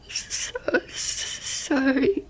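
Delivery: slow, breaking apology through tears; tearful broken sorry; crying. Real, not acted. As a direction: choke the words out while crying. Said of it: "why are you crying".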